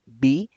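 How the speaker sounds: "bi" with both lips pressed; bilabial B. Shown as a demonstration. Teacher modeling the B sound for students. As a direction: pop "bi" off closed lips. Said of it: "es un sonido bilabial".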